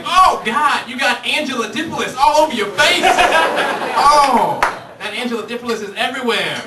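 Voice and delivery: high, loud, disgusted yelling; disgusted shout. Pretend.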